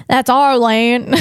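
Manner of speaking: put-on slow British accent slipping into Southern; botched British accent. British claiming the land from settlers, botched British accent gone Southern. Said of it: "that's a Southern act".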